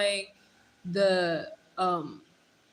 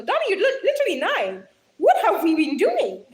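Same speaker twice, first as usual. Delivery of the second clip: high, loud, laughing disbelief; laughing tease; 7 semitones higher, 6 dB louder than usual. Real, not acted. Streamer teasing a viewer about a crush at nine, laughing loudly. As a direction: crack up while teasing the viewer.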